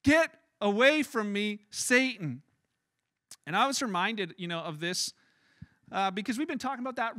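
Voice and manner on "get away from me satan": slow, weighted command; slow firm rebuke. Acted. Jesus addresses the enemy behind Peter, slow firm rebuke. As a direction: space it out firmly, phrase by phrase.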